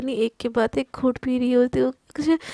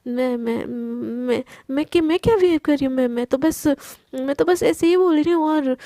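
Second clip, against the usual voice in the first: हकलाती घबराहट. Acted. Flustered friend stammers defensively.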